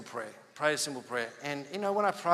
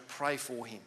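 soft whisper; 3 semitones lower, 8 dB quieter, slower than usual. Retold or imitated. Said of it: "little almost whisper".

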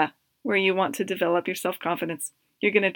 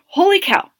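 stunned surprise; 3 semitones higher, 6 dB louder than usual. Retold or imitated. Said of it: "And I was like".

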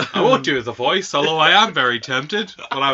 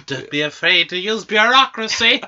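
mock villain echo; 4 semitones higher than usual. Echoes villain line as joke.

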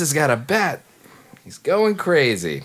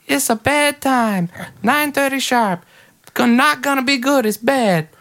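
high-voiced bad time guy; 12 semitones higher than usual. Shown as a demonstration. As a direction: pitch it way up and drag it like the bedtime guy. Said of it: "doing this bit of a guy".

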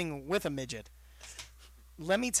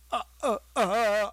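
mock stammering kid; 6 semitones higher, 6 dB louder than usual.

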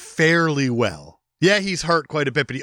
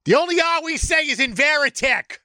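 mock Irish; 11 semitones higher than usual. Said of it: "Irish accent".

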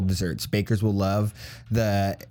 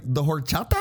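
higher, questioning echo in an exaggerated Spanish accent; mock Spanish accent; 5 semitones higher than usual. Teasing coworker about his word, mock Spanish accent. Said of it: "he says it in an accent".

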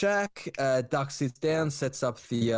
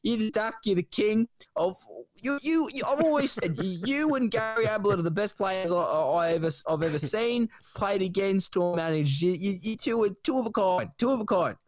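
lightly voiced Ricky; 5 semitones higher than usual. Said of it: "And then Ricky says".

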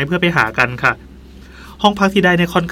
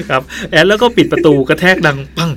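laughing while talking; 3 dB louder than usual. Real, not acted. Still laughing while telling.

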